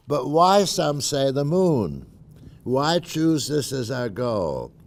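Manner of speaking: rally the crowd like a president at a podium; formal speech. Shown as a demonstration. Reading Kennedy Rice speech.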